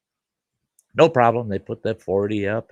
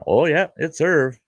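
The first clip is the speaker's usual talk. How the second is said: high, louder surprised oh yeah; recognizing him; 8 semitones higher, 5 dB louder than usual. Retold or imitated. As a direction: realize who it is.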